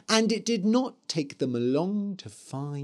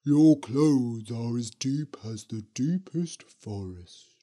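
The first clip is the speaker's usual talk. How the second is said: a lightly voiced ghost witch; 4 semitones lower than usual. A narrator's reading. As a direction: lower eerie witch voice. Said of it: "said the Green Witch".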